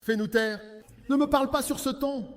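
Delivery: stern correcting voice; strict tone. Shown as a demonstration. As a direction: correct someone sharply. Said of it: "un ton de voix comme quelque chose de strict".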